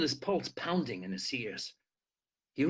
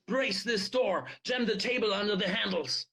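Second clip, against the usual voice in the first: shouted order; 7 semitones higher than usual. Acted. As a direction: keep shouting instructions to the crowd. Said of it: "Theo shouted".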